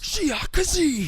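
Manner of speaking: high, slow dramatic incantation; Plankton spell. Retold or imitated. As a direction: cry it out like a tiny cartoon villain. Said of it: "He's like".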